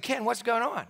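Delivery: mildly freaked-out retold reaction. Asking his brother home from hospital, freaked out. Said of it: "I freaked out".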